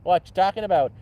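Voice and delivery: lightly put-on Canadian accent; playful Canadian accent, eh; hardcore Canadian accent. Shown as a demonstration. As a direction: lean a little into folksy Canadian. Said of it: "hardcore Canadian accent there".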